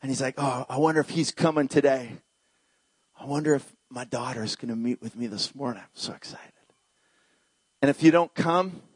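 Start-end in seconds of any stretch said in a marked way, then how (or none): 0.4-6.5 low, hushed anticipation; soft, intimate acted expectancy; tenderly hopeful Jesus. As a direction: wonder softly, fading to a whisper. Voices Jesus waiting hopefully at table.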